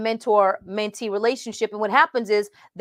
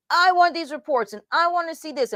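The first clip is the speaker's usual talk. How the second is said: mock bossy demand; 6 semitones higher than usual. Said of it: "You're gonna be the heavy-handed leadership".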